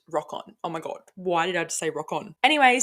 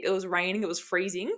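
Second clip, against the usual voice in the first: dramatic. Real, not acted. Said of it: "That was a bit dramatic".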